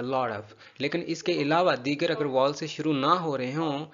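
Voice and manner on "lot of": "lot of" run together as "lodof"; T becomes D. Shown as a demonstration. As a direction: say the T in "lot of" as a quick D. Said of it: "डी का sound बन गया". ("lot of" में टी की जगह डी)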